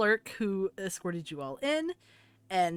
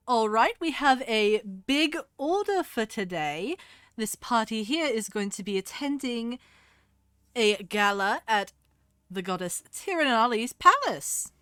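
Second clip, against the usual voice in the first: higher, louder clerk announcing the big order; brisk shopkeeper voice; 4 semitones higher, 6 dB louder than usual. Acted. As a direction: boom out the day's order like an eager clerk. Shopkeeper greets the party.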